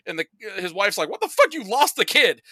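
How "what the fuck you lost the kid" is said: high, loud shocked squawk; hammed-up disbelieving yell at husband; mock outraged wife. Wife reacts, retold.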